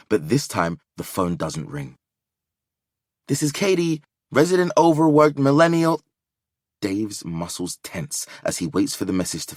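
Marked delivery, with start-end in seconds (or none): 3.3-6.0 voicemail greeting. Acted.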